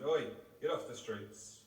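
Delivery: retold shout. Taxi driver calling to his cycling great uncle, retold shout. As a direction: call out as if to someone across the road. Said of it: "I shouted".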